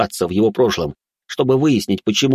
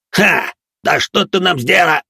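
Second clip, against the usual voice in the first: mocking demon; 9 semitones higher, 5 dB louder than usual. Demon mocks the heroine.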